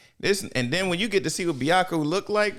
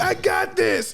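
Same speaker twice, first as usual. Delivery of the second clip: high cocky shout; slower than usual. Retold or imitated. Kuwabara boasting in a fight, high cocky shout. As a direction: shout it with hammed-up confidence. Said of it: "He was like".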